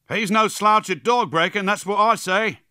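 high, loud and excited; a rousing cheer from an onlooker; enthusiastic cry. A narrator's reading. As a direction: call it out with admiring enthusiasm. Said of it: "cried enthusiastically".

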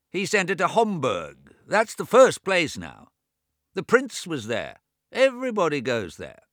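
put-on high, loud old man talking over his own deafness; deaf old James. A narrator's reading. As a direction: raise the voice as if he can't hear himself. James recommends his doctor.

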